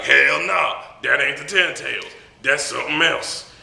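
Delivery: high, loud mock-homie denial; emphatic homie. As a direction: refuse it with hammed-up swagger.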